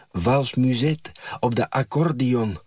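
lightly voiced blissful woman. A narrator's reading. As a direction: sigh it out in bliss. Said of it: "ze kijkt er verzaligd bij".

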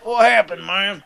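high dopey stoner voice. Pretend. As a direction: ask it like a confused hippie. Stoner hippie persona.

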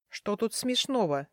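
usual speaking voice

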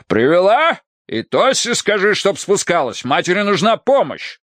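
high, agitated colonel; urgent command. A narrator's reading. Colonel sends maid for daughter to help mother, urgent. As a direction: fire off orders in agitation.

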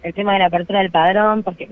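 distant, choppy headset audio; faraway headset mic. Real, not acted. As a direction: voice through a far-off earpiece mic. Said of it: "te escuchábamos muy lejos y".

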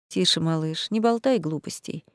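soft, weary comfort; tired tender reassurance. A narrator's reading. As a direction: gently hush her, worn out. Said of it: "устало улыбнулся Реймонд". (устало и нежно успокаивает её)

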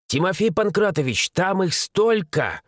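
put-on young assistant marvelling at the crowd; exclaiming. A narrator's reading. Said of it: "воскликнул его молодой помощник".

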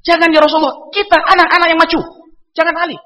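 mild pleading companion. Retold or imitated. Companion begging the Prophet not to send Ali, mildly pleading. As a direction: beg him lightly to send someone else. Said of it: "kalau bahasa kita".

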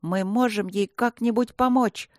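лёгкое отчаяние в вопросе; спросить с надеждой и тревогой; с отчаянием. Acted. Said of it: "с отчаянием спросил Майкл". (мальчик умоляет волшебника, с лёгким отчаянием)

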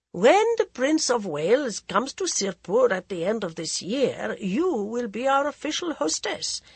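cool, mocking aristocrat voice; mocking prince. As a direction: sneer it like a bored royal. Prince Pratap speaks over brandy.

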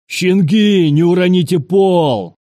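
high, loud mocking-back shout; yelling back. A narrator's reading. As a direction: shout back in the same yelled tone. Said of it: "Таким же тоном ответил".

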